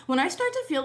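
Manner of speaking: ordinary talk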